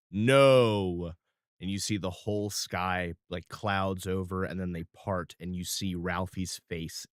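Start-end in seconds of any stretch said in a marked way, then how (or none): 0.1-1.1 booming no from above. Acted. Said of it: "you hear from way above him".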